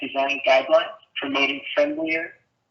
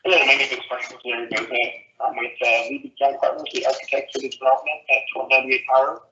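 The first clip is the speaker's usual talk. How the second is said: muffled; 2 semitones lower, faster than usual. Real, not acted. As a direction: voice muffled, hand over mouth. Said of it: "you're a little muffled".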